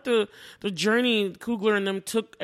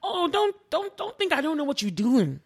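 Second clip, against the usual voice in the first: high, knowing mom scolding; African mom; 5 semitones higher than usual. Retold or imitated. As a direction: scold like a mom who knows. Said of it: "she was like the African mom".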